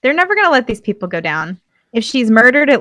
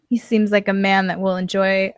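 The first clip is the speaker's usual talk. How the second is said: usual speaking voice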